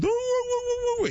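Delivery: very high yelping woo; imitated dog bark. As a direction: yelp like a barking dog. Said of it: "starts with".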